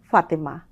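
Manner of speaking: ফাতেমা with a lip-teeth f; open-mouthed f in ফাতেমা; f in Fatema. Shown as a demonstration. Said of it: "ইংরেজিটা মুখ খুলে বলতে হবে". (ফাতেমা এফ উচ্চারণে)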